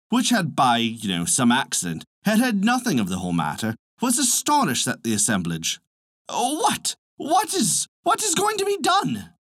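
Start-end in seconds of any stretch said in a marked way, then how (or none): 6.3-9.3 high-pitched flustered hen; cackling hen. A narrator's reading. Hen asking what all this is about, high cackle. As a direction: cluck it out in a high, fretful squawk. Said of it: "she cackled".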